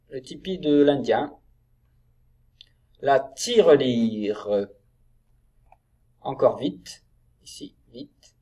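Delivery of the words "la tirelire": slow, drawn-out model reading; word-by-word reading. Shown as a demonstration. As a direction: stretch each syllable for beginning readers. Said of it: "on enchaîne".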